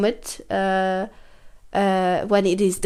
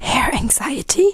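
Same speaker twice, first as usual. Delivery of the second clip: whispering. Real, not acted. Both keep whispering.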